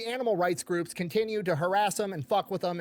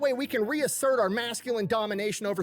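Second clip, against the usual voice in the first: sarcastic farmer voice; 2 semitones higher than usual. Retold or imitated. Mocking the paper's idea of farmers, a hint of gushing farmer. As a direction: gush like a dumb farmer, sarcastic.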